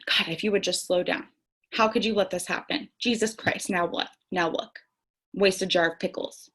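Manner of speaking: a hint of a harsh parent scolding; inner scolding parent. An inner voice scolding the little girl inside, mildly harsh. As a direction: lightly voice the inner critic telling her off. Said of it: "who is being reprimanded in that moment".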